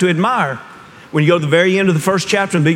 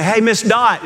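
lightly re-enacted bright hello, higher pitched; cheery greeting; 8 semitones higher, slower than usual. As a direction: call out a friendly hello, pitched up. Greets her before realising she's crying.

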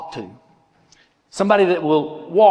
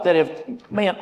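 normal talking voice

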